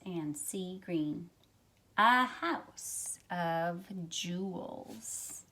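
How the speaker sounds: gentle storybook read-aloud for a class; reading to children. Acted. Teacher reading a picture book to her class, storytelling voice. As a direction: tell the story to young listeners, unhurried.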